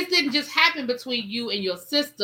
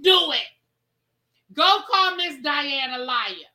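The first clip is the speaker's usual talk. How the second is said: loud dare; 3 semitones higher, 4 dB louder than usual. Real, not acted. Daring viewers to call liar.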